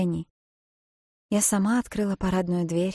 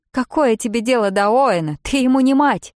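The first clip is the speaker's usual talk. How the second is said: loud, higher furious yell; angry shriek; 6 semitones higher, 10 dB louder than usual. Acted. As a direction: scream it in her face. Bridget screams at narrator. (гневный крик, выше и громче)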